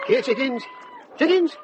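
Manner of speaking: calling out. Acted. Calling the chickens outdoors.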